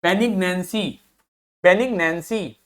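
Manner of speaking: बेनिग्नेंसी very slowly, be-nig-nen-see; slow pronunciation drill. Shown as a demonstration. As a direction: stretch बेनिग्नेंसी out for the class. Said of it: "अगला देखिए". (बेनिग्नेंसी धीरे-धीरे बोलकर दिखाना)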